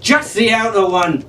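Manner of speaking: impatient, just get on with it; exasperated. Acted. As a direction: Jack explaining in exasperation to Arabella. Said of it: "he said in exasperation".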